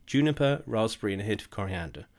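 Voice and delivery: plummy posh English voice on juniper, raspberry and a hint of coriander; reading the gin label out in an unexpected posh tone. Real, not acted. Reading the gin label, accidentally posh voice. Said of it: "I sounded posh when I said that".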